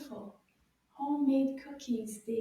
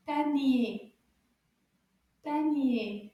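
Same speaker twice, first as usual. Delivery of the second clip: Panier loud and measured; slower take; 4 dB louder, slower than usual. Shown as a demonstration. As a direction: give each syllable of Panier its weight. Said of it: "Can we say it a little bit faster".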